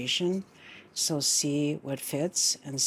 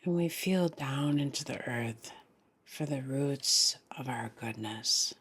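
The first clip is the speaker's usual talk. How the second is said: guided meditation. Real, not acted. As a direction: lead them gently into the breath, phrase by phrase.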